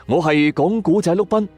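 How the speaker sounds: usual speaking voice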